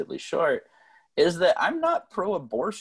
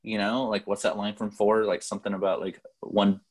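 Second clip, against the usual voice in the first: stoned; 6 semitones lower than usual. Real, not acted. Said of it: "Sorry, I'm high".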